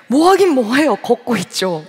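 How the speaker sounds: a touch of indignation at God's question; irritated retort. Retold or imitated. Answering God on the road, mildly irritated. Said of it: "제가 순간 조금 화가 나더라고요".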